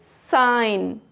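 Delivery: "साइन" with no G sound before the N; silent G. Shown as a demonstration. Teacher giving an example of silent G, "साइन" said slowly without G. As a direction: draw out "साइन", G left silent. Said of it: "जी नहीं पढ़ा जाएगा".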